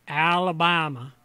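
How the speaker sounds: Southern accent, confidently found. Shown as a demonstration. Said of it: "to kick in the southern".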